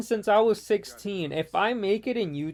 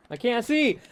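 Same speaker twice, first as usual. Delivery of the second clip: higher-pitched frustrated outburst; frustrated cry; 5 semitones higher than usual. Real, not acted. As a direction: call out in frustration, short. Calling out during gameplay.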